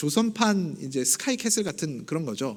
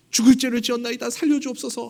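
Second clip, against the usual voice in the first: louder, higher begging for mercy; mock groveling plea; 5 semitones higher, 3 dB louder than usual. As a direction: grovel on the ground before the queen. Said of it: "사죄를 하는 거죠".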